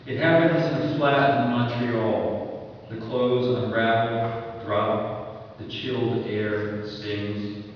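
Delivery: slow, measured verse reading; poetry reading. Acted. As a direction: read the lines slowly, with pauses between images. Reads a poem excerpt.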